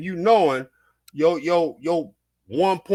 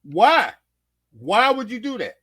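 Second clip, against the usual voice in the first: firm, less explosive follow-up; heated why; 5 semitones higher, 3 dB louder than usual. Real, not acted. Host pressing the question, annoyed but steadier. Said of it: "I'm getting heated".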